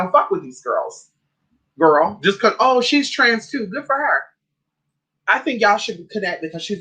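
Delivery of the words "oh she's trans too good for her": higher, drawn-out mock approval; mimicked naive supporter. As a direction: imitate a supporter cheering, pitched up. Mimicking those who cheer her.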